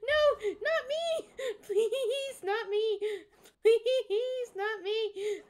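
high, loud panicked begging through laughter; terrified yet giggling pleas; scared laughing pleas. Real, not acted. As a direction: plead for your life, half laughing. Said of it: "I'm so scared".

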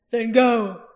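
loud order to go; war leader shouting go; commanding shout. Acted. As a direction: send them off with a bark. Roran dismisses the commanders.

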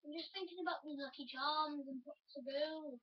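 playful attempt at an Irish accent; lilting mock Irish. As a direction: put on a light Irish accent. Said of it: "doing my best Irish accent".

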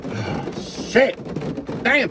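sudden high breathy exclamation; startled curse. Real, not acted. Trucker startled while driving, sudden high curse. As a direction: catch your breath at a shock. Reacting on the road.

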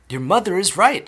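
high, loud exclamation; father's shout. A narrator's reading. Father backing up his wife, shouting. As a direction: raise the voice sharply. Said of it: "shouted Mister Beauregard".

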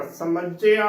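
"ਸਮੱਝਿਆ" as sa-MAJJ-ea, doubled j; full-bodied pronunciation. Shown as a demonstration. Teacher telling learners to say it full, emphatic model. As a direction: lean on the double consonant in "ਸਮੱਝਿਆ". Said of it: "ਭਰ ਕੇ ਬੋਲਣਾ ਹੈ".

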